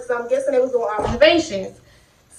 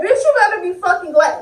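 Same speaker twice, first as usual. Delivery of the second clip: angry threat; 5 semitones higher than usual. Retold or imitated. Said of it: "I said".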